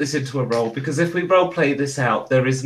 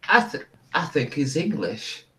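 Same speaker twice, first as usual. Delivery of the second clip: put-on wobbly, half-found Australian accent; unconvincing Australian accent, a bit soft; botched Australian accent; 4 dB quieter than usual. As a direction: attempt an Australian accent and miss. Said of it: "That's not my best Australian accent".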